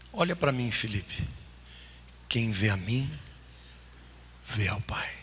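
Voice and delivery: low, hushed delivery with long pauses; quiet, solemn answer. Retold or imitated. Jesus answering Philip's request to see the Father, quietly solemn.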